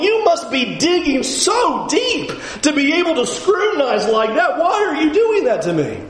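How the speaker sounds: rising indignant pleading, laughing in disbelief; half-laughing exasperated complaint; exasperated protest. Retold or imitated. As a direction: push back at God, voice climbing. Job protesting to God.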